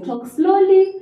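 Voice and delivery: slowly. Shown as a demonstration. Teacher contrasting slow talk with fast, slowly. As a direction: stretch the words to show a slow pace. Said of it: "increase the pace faster".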